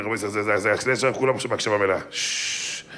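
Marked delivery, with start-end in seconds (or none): 2.1-2.8 whispered shush. Real, not acted. Rabbi hushes the crowd, whispered shush. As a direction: hush them in a whisper. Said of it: "quiets the audience".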